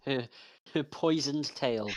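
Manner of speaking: laughing. Real, not acted. Laughing while talking.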